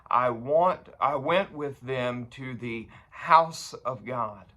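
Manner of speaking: emphatic, projected psalm reading; scripture reading. Acted. Preacher reading David's memory of worship, emphatic scripture reading. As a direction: proclaim the verse, leaning on key words.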